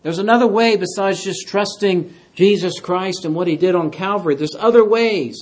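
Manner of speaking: mock false teacher. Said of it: "people that come along and say".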